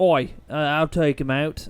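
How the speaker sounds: lightly voiced Australian accent, slowish; a hint of an Aussie pilot. Pilot answering the commander in a light Australian accent. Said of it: "that's actually Australian".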